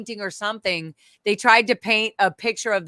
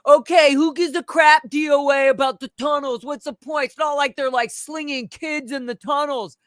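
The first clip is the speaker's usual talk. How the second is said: higher-pitched imitation of an exasperated critic; mock dismissive outburst; 4 semitones higher, 3 dB louder than usual. Imitating everybody questioning the tunnels, mock exasperated. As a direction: start loud, scoff like a fed-up sceptic.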